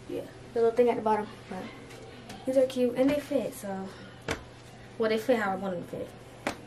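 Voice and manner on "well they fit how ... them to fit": slightly winded talking; out of breath. Real, not acted. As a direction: talk while a bit out of breath. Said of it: "why am I out of breath?".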